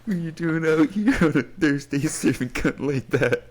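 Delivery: high, sassy drag queen voice. Retold or imitated. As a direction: camp diva calling someone out. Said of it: "I fucking love that video".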